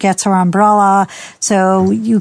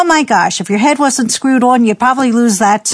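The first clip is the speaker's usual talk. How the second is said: higher, exasperated nagging; mock scolding parent; 3 semitones higher than usual. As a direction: berate the kid, exasperated. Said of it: "you say".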